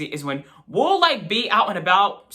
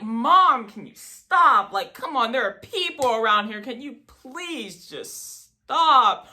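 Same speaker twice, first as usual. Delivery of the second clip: embarrassed plea; 4 semitones higher, slower than usual. Retold or imitated. Embarrassed son pleading.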